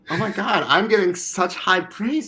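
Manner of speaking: high, loud, mock-boastful outburst; hyped self-quote. Player hyping himself after high praise, high loud boasting. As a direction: crow it like an overexcited player. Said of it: "I'm like".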